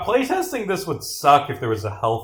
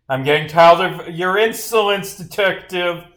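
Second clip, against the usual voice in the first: raised, higher-pitched scolding; irate rebuke; 4 semitones higher, 5 dB louder than usual. Acted. Witness tired of detective's insolence, irate rebuke. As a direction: scold with rising indignation.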